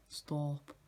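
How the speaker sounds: attempted Scottish accent, rounded vowels. Vlogger trying out a TikTok guy's voice, rough Scottish accent. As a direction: lightly mimic a Scottish voice. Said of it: "That's Scottish".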